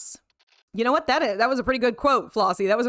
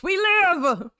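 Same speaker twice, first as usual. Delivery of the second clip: high, drawn-out whoop; slow, high-pitched exultation; real triumphant cheer; 9 semitones higher, 4 dB louder than usual. Real, not acted. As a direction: cheer at being back, stretching the last word. Celebrates the stream coming back.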